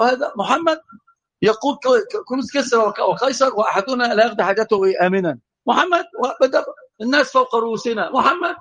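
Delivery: high, sneering mock quote of the doubters; mocking hypocrites. Preacher imitating the hypocrites' scorn in a high sneer. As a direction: pitch it up and scoff at the promise.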